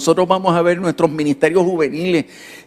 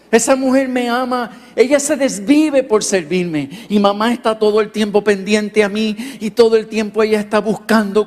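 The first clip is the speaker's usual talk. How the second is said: pastor imitating a preteen boy gushing about his mom; boy's voice; 4 semitones higher than usual. Pastor retelling a boy's words about his mother, in a light, higher boyish voice.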